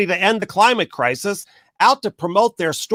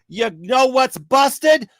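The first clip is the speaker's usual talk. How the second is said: shouted question; 5 semitones higher, much slower than usual. Real, not acted. Ranting speaker shouting the question at his audience, slow shout. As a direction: hammer the question home, slowly. Repeated question, building to reveal.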